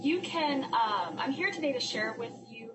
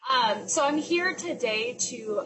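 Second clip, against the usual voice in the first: teacher voice; 4 semitones higher, slower than usual. Real, not acted. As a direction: speak up like addressing a classroom. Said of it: "I'll use my teacher voice".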